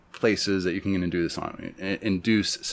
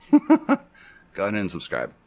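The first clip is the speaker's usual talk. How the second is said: chuckling; 5 dB louder than usual. Real, not acted. Laughs after jokingly waiting for subscribers.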